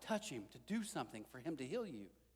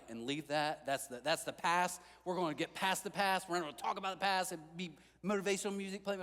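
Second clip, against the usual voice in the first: mock motivational pep talk; 3 semitones higher than usual. Preacher imagining himself as Jesus, hammed-up motivational pep talk. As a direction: pump them up like a cheesy life coach. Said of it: "If I were Jesus, I would have been like".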